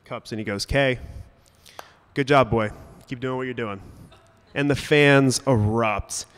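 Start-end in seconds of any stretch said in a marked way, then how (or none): 0.6-3.8 mild sideline call through cupped hands; half-voiced shout of encouragement; imitated calling out. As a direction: call out lightly, as Grandpa encouraging from the stands. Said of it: "puts his hands over his mouth, cups".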